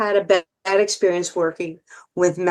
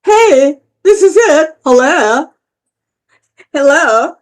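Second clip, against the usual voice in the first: high, loud thrilled outburst; excited inner voice; 5 semitones higher, 6 dB louder than usual. Retold or imitated. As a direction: burst out with thrilled joy. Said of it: "something in your head is saying".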